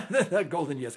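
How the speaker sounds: repeating "not golden years" through a chuckle; laughing. Real, not acted. Host joking to his guest about aging, laughing. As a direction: laugh the words out, amused at himself.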